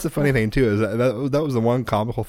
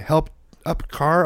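put-on toddler voice; 6 semitones higher, slower than usual. Dad voicing toddler son.

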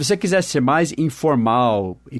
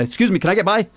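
higher, impatient "Excuse me, can I get by?"; a bit annoyed; 7 semitones higher than usual. Shown as a demonstration. Shopper blocked in the aisle, mildly irritated. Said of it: "Se você tivesse um pouquinho bravo".

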